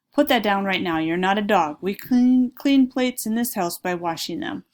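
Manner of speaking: loud, stern scolding; angry mom. Acted. Mom scolding Freddy for licking his plate, loud and stern. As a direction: lay down the law, loudly.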